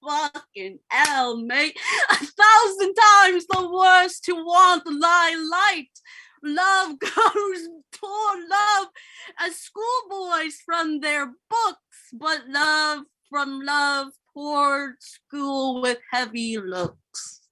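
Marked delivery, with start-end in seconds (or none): 2.1-5.9 loud, high dramatic lament; loud declaiming. Acted. Romeo declaims loudly. 6.4-17.4 slow, giggly reading; laughing through lines. Acted.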